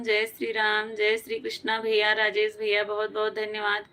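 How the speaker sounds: normal talking voice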